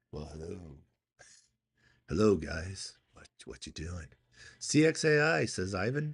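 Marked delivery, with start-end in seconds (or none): 0.1-4.0 put-on, mock-seductive sexy voice, much lower. Tired speaker recalls their voice this morning, doing a put-on sexy voice. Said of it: "I was doing like my sexy voice".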